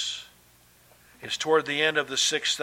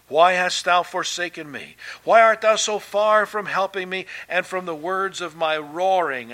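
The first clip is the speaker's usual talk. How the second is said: raised, imploring scripture quote; crying out; 2 semitones higher, 4 dB louder than usual. Retold or imitated. Preacher quoting Jesus from Psalm twenty-two, mildly crying out. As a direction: mildly cry out the question. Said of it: "he was crying out".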